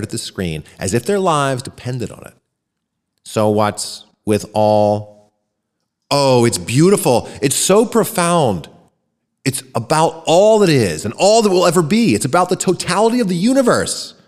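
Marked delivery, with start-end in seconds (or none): 3.2-5.3 slow, stiff machine voice reading the message; a computer announcing words one by one; robotic voice. Acted. Alien computer reads its message aloud in a slow robotic voice. 6.1-14.1 higher, rapturous cry of wonder; excited shout. Acted. A woman in the crowd cries out in wonder, higher and awed. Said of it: "a woman shouted".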